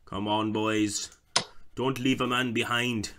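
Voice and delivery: put-on slow rallying Scottish accent; rally the troops in a Scottish accent. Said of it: "Why am I doing a Scottish accent?".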